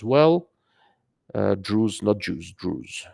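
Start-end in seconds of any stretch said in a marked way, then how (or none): 1.6-2.0 Druze said with a crisp z at the end; Druze clearly. Shown as a demonstration. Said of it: "With my accent". 2.5-3.1 Druze repeated softer, a long oo and a clear buzzing z; Druze clearly. Shown as a demonstration. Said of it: "With my accent".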